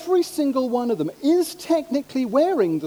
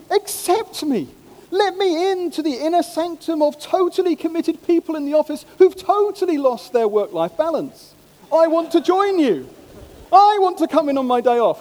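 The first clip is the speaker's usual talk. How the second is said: mock pleading plea; 4 semitones higher, 3 dB louder than usual. Acting out an unspoken plea.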